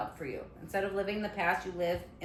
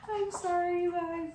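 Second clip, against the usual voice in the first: 1 laughing apology; 10 semitones higher, 4 dB louder than usual. Real, not acted. Dog distracting her mid-recording.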